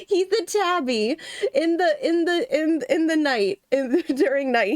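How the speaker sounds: words breaking into laughter; laughing while talking. Real, not acted. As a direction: giggle your way through it. Laughing through her words.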